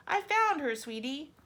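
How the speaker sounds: put-on a mama comforting her little girl; sweet mother's voice. Mother comforting daughter about her doll, high and sweet.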